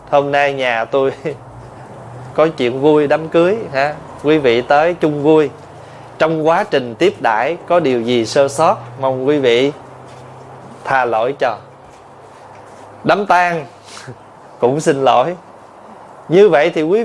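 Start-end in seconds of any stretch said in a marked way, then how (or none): 0.1-11.6 polite wedding speech. Retold or imitated. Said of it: "Đám cưới xong cũng đứng lên".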